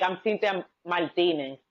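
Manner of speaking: "Martinez" said the Dominican Spanish way; "Martinez" as Mal-TEE-ne, final z dropped; Spanish pronunciation. Shown as a demonstration. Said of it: "not Martinez, Martinez".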